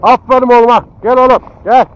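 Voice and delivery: loud praising call; calling the dog. Real, not acted. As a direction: call the dog back with cheer. (köpeğe yüksek sesle seslenme)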